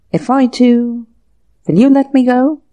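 a frightened man begging to be let go; tremulous. A narrator's reading. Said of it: "he asked tremulously".

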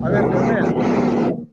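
loud, slow, airy call of the name; drawn-out call. Real, not acted. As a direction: stretch the name out to grab his attention. Profesora llama a alumno distraído. (llamada fuerte y alargada)

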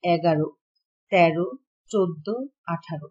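এগারো, তেরো, চোদ্দ, আঠারো each ending in a rounded o; closed final vowel. Shown as a demonstration. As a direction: list the numbers, closing each last vowel to o. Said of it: "শেষের অ এর উচ্চারণ সংবৃত হয়". (শেষের অ ও-এর মতো করে "এগারো, তেরো")

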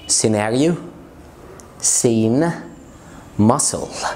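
muscle said as "mussel", c silent; silent c examples. Shown as a demonstration. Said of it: "silent بعد الاس". (أمثلة نطق الـ c الصامتة)

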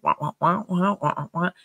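lightly mimicked muted-trombone wah-wahs of the Peanuts teacher; imitating muffled teacher. Preacher mimics Charlie Brown's teacher on the phone, mock wah-wah. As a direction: mimic the garbled adult voice on the phone, half-sung. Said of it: "it would just be like".

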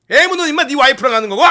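loud, high officer telling off a soldier; hammed-up exasperated commander; mock scolding shout. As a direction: yell it at a clueless subordinate. Commander scolds confused soldier, acted.

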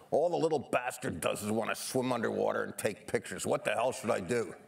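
a light hint of an angry Canadian father; lightly imitating his fuming dad, half laughing; mad Canadian dad. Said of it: "in his mad Canadian voice".

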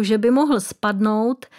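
ordinary delivery

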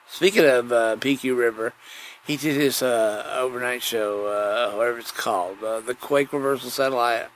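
normal talking voice

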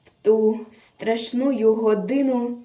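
measured, theatrical verse delivery; dramatic poem recitation. Acted. Reciter tells of a captured partisan girl, dramatic declamation. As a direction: declaim a solemn war poem with feeling.

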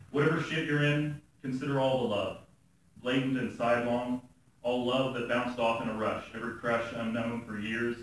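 measured, earnest spoken-word delivery; even recital with pauses between images; poem reading. Acted. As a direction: read it as a serious poem, phrase by phrase.

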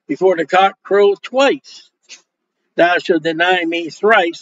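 slow, weighty King James recitation; scripture reading. Acted. Preacher quoting Jesus' warning to Peter, slow and solemn. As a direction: draw out Jesus' words solemnly. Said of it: "Peter called to mind the word that Jesus had said".

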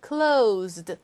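Closed with a buzzing Z, not S; Z sound in closed. Shown as a demonstration. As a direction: end Closed on a voiced Z. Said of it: "여기는 Z 발음이 맞겠죠".

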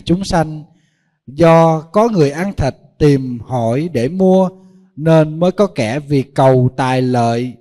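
slow, measured scripture recitation; solemn sutra reading. Acted. Monk reads the Lankavatara Sutra to the assembly, slow and solemn. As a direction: intone the Buddha's words slowly and gravely.

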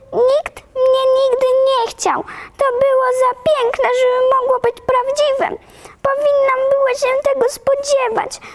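put-on very high, tearful little girl's voice rising to a whisper; a child pouring out despair; distraught orphan girl. Orphan girl to Marilla and Matthew, very high, near tears. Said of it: "zawołała".

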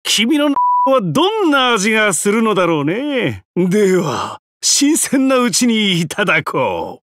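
greedy relish. Acted. Hungry villain about to feast.

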